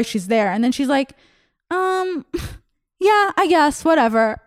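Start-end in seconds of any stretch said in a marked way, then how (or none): 1.7-4.4 higher, laughing, shrugging whatever; reluctant fan. Retold or imitated. Comedian imitating the fan's reluctant yes to a photo, higher and laughing. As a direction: toss it off like you couldn't care less.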